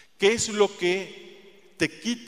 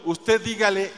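ordinary talk

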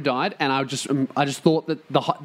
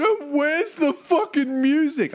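mock whiny fan; 11 semitones higher, slower than usual. Mocking fans demanding the mixtape.

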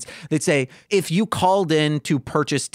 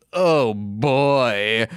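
sitcom aside; 4 semitones lower than usual. Acted. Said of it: "looks at the camera and goes".

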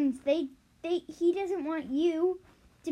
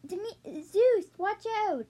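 warning cry; 5 semitones higher, slower than usual. Acted. Character warns Zeus of dragon.

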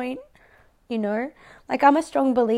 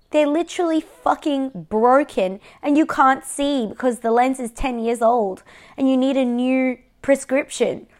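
raised, exasperated retort to her mother; retold exasperation; 5 dB louder than usual. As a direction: push back hard, louder and fed up.

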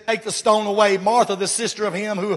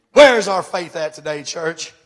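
calling out; 6 dB louder than usual. Acted. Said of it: "calling out to church".

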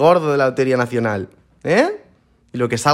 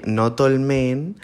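slow, drawn-out mocking "not all men"; mocking quote; much slower than usual. Podcaster mocking men who say "not all men", slow and sneering. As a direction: drag out "not all men" to mock the whiners. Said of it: "luego me vienen los frustraditos".

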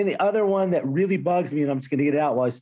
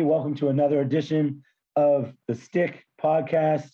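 hoarse, worn-out voice after yelling; raspy voice. Real, not acted. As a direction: speak through lost, raspy voice. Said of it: "you can tell I lost my voice".

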